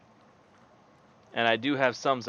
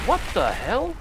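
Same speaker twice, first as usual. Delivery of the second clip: shocked yelp; 12 semitones higher, 5 dB louder than usual. Real, not acted. Sudden surprise.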